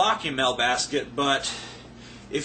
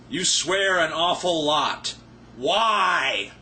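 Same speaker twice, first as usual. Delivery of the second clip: odd reading; much slower than usual. Shown as a demonstration. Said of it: "not sure that was how I was supposed to enunciate that".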